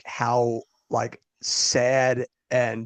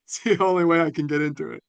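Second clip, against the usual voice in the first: Southern accent; 2 semitones higher, faster than usual. Shown as a demonstration. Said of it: "To catch the accent as it is".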